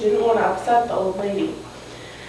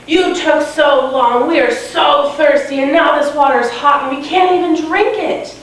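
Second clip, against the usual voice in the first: higher-pitched, mild mock scolding; mock yelling; 4 semitones higher than usual. Mean mother and sister scolding Blanca, mildly acted yell. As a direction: complain like a mean mother, half-yelled. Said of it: "they were yelling".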